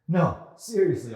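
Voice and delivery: loud slow taunt; mock-serious loud jab. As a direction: needle him hard. Chelsea needling loudly.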